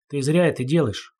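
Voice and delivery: ordinary delivery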